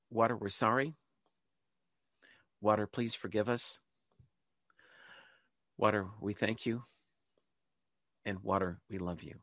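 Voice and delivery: led prayer. Shown as a demonstration. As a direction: pause after each short plea, as if leading a congregation. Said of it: "Let's do it twice more".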